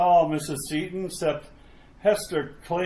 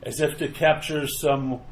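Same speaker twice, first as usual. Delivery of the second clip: measured, atmospheric scene-setting narration; story narration. A narrator's reading. Narrator opens a graveyard tale, ominous story narration. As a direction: set an eerie graveyard scene, unhurried.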